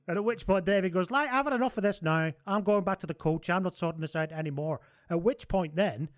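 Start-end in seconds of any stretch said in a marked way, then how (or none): 1.1-4.8 Humphries voice. Retold or imitated.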